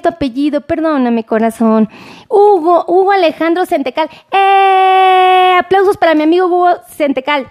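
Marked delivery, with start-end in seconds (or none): 2.3-7.5 cheer. Real, not acted. Cheering her friend Hugo.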